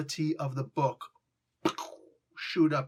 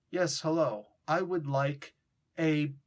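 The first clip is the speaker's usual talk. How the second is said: stilted, over-careful deli order; mock-formal, measured customer; stiff proper English; slower than usual. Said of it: "you're not doing colloquial".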